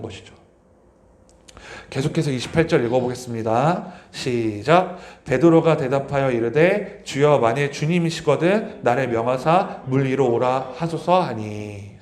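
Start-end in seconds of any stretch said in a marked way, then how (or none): 5.2-12.0 slow, measured reading of the verse; scripture reading. Acted. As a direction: read the verse aloud with the church.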